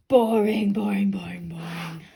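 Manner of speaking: unvoiced, hushed; whispered boring. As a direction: whisper the words. Whispered repeat.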